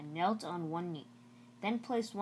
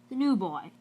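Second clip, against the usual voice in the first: surprised; 3 semitones higher, 7 dB louder than usual. A narrator's reading. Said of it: "Mister Blevins said in surprise".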